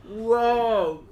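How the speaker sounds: real laughter, stunned; laughing amazement. Real, not acted. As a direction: burst out laughing in disbelief.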